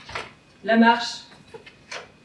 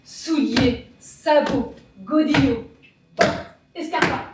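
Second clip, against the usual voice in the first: each word set apart by a short pause; deliberate, evenly spaced marching list; measured list. Acted. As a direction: count them off one by one like steady footsteps. Marching list of shoes, first round.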